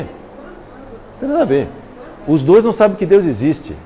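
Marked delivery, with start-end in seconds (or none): 0.0-1.7 devagar. Shown as a demonstration.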